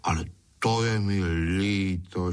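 plaintive, mild pleading; lightly wheedling lament; begging. Acted. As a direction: beg with a touch of regret. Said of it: "škemral darmošlap".

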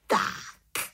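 contented little witch; pleased exclamation; satisfied call. Acted. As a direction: announce it with satisfaction. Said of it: "spokojeně zvolala malá čarodějnice".

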